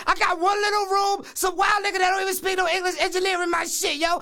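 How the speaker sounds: agitated, relentless stream of grievances; worked-up rant. Acted. Rapper complaining about his record deal, worked up. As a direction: rant on angrily without letting up. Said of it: "if you please calm down".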